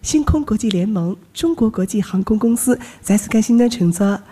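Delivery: flight attendant. Acted. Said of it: "学学啊".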